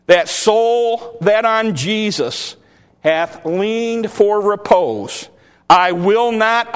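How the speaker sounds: slow dramatic reading of hymn lyrics; recited hymn verse. Acted. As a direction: declaim the hymn lines slowly, with rising fervour. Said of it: "the last verse of that song says this".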